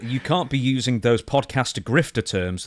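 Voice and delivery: slow careful reread. Real, not acted. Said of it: "Please read that again".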